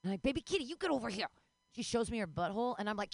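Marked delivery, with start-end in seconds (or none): 0.2-1.3 quick, higher mock demand; mock-impatient pet scolding; bossy cat call. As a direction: order the ignoring cat over. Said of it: "And then she ignores me".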